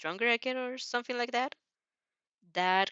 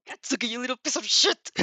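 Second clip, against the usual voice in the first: furious shout, louder; angry snap; 3 semitones higher, 5 dB louder than usual. A narrator's reading. Mother scolding her son for slamming doors, shouting. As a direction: snap at him. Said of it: "She snapped".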